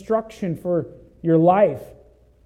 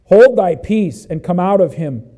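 stern rebuke; 7 dB louder than usual. Acted. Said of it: "Jesus rebuked him".

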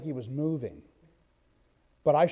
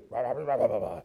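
imitated dog barks, rah rah; mock dog barking; 5 semitones lower than usual. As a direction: bark like a guard dog, playfully. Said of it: "the dog did what he was".

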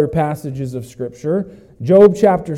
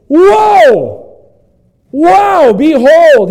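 high, loud cries of wonder; amazed exclamation; 9 semitones higher, 7 dB louder, much slower than usual. Shown as a demonstration. Pastor voicing John's amazement, loud and high. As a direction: burst out in awe. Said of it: "his expression is".

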